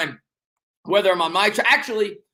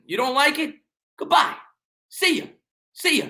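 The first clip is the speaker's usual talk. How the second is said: mock dismissive goodbye; 7 semitones higher than usual. Mock dismisses a heckler in chat.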